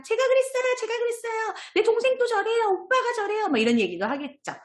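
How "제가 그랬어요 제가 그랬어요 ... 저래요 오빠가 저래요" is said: put-on high-pitched child voice; eager kids piping up, pitched way up; chiming-in children. Children telling teacher about their siblings, high child voices. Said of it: "애들이 또 이런 얘기합니다".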